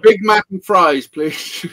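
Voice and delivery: slow mock-American order; American accent. Brit ordering fast food, mock American accent. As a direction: put on an American accent, drawn out. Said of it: "what can I say in American?".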